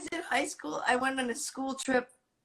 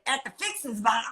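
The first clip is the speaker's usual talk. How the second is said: put-on Southern accent. Retelling the lady answering friend Pete, light Southern accent. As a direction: imitate a Southern lady, dropping the r. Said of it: "basically at that point a Southern accent".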